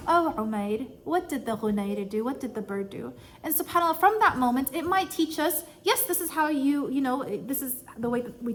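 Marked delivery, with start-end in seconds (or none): 0.1-3.1 soft gentle question. Retold or imitated. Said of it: "So he said".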